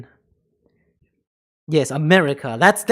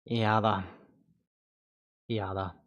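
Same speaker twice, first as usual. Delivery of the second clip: sulky refusal; 8 semitones lower, 10 dB quieter than usual. Pretend.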